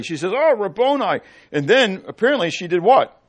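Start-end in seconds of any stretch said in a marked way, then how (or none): 0.3-1.2 joyful recognition. Acted. Mary recognizes Jesus again.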